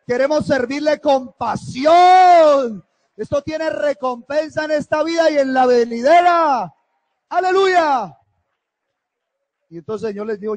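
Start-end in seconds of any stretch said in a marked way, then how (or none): 0.1-8.2 high, loud exultant shout to the congregation; fervent preacher's cry; full-force preaching. Real, not acted.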